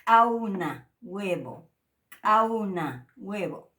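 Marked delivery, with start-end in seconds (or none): 0.1-0.9 "Auna" said loudly with a glottal catch; glottal k model. Shown as a demonstration. Teacher modelling the glottalized k. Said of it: "afectado por el signo este". 2.2-3.1 "Auna" said loudly with a glottal catch; glottal k model. Shown as a demonstration. Teacher modelling the glottalized k. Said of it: "afectado por el signo este".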